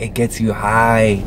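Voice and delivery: stretched-out, slow quote; imitated slow claim. Girl telling him about the balloon, imitated slowly. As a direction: draw the words right out as her.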